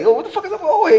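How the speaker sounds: high, laughing mock alarm; laughing disbelief. Telling a friend about the odd old inmate, high laughing disbelief. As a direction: squeak it out through a laugh, baffled. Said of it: "I'm like".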